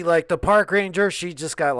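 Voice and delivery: ordinary talk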